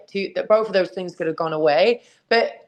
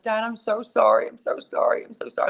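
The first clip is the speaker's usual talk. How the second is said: retold crying apology; 3 semitones higher than usual. Daughter apologising to dad on the phone, mock crying. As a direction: imitate tearful pleading, voice falling away. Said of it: "I'm, like, crying to him".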